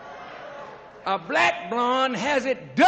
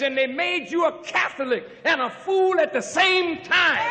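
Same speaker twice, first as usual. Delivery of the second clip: preaching at full force; 3 semitones higher than usual. Acted. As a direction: call them out hard. Shouts at Hispanic listeners.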